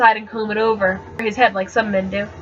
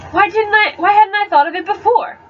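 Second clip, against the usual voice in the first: pitched up in sudden discovery; excited realization; 9 semitones higher than usual. A narrator's reading. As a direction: realize it all at once, thrilled.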